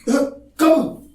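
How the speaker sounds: high, sharp startled questions, slowing at the end; shocked double take. Shown as a demonstration. Teacher showing the student a startled reaction. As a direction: react as if hit by sudden news. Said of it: "ये मुस्कुरा के चेहरे पे".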